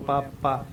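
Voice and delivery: ਪਾਪਾ with a pressed, heavy p; ਪਾਪਾ said with extra pressure on the p; heavy papa. Shown as a demonstration. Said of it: "ਥੋੜ੍ਹਾ ਜਿਹਾ pressure ਦੇ ਕੇ ਬੋਲਦੇ ਆ".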